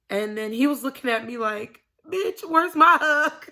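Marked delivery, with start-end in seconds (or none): 2.1-3.5 laughing high mock demand; boy's imagined demand. Little boy demanding his hug, laughing and loud. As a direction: voice the kid's look through laughter.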